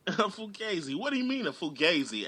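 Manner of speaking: mock Pacino asking what fugazi means; playful Italian-American gangster voice; Pacino impression. Imitating Pacino's movie line.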